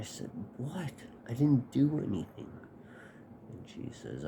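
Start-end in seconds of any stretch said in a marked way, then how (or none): 0.6-2.5 innocent protest. Retold or imitated. Boy protesting to his furious mom, mock-innocent and high. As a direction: play it all innocent.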